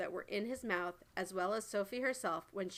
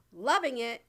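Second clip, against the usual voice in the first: much louder indignant yell; 3 semitones higher, 10 dB louder than usual. A narrator's reading. Giant outraged at the BFG, loud yell. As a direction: throw the words back at him. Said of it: "yelled the blood bottler".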